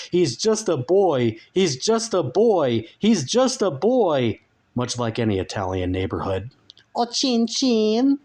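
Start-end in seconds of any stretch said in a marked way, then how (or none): 0.1-4.4 louder, much higher desperate neighbour's cry; crying out for mercy. Acted. Obese neighbour shouting from her window for mercy. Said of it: "hurling their emotive pleas". 7.0-8.2 very high, eerie, drawn-out creature voice; eerie demon voice. Acted. Dark lord calling to sleeping Frank, very high eerie voice.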